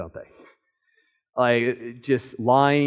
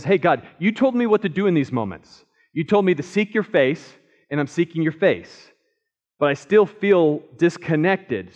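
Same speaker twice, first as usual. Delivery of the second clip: louder, higher, urgent plea to God; pleading David; 5 semitones higher, 5 dB louder than usual. Pretend. David begging God not to hide his face, pleading. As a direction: beg like a man afraid of being abandoned.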